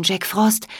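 name said gently with a rise on Frost; gracious, kindly rising call; welcoming queen. Acted. Queen addresses Jack Frost kindly.

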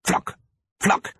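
two short sharp "pflack" sounds; imitated pebble knocks. A narrator's reading. Narrator mimics pebbles hitting the pane, imitated knocks. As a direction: mimic stones striking glass. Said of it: "machte es".

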